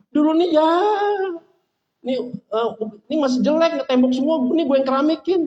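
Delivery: mock self-important donor; boastful show-off. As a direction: show off your good deeds, hammed-up. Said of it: "Artinya nggak pernah ria".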